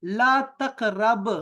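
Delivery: teacher shows the form slowly; slow model answer. Shown as a demonstration. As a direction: model ला तक़रब slowly for the student. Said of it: "आपने कहना है".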